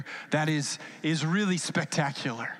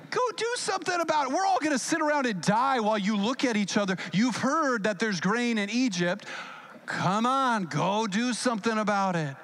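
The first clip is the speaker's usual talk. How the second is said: impatient father; 3 semitones higher than usual. Retold or imitated. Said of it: "He's like".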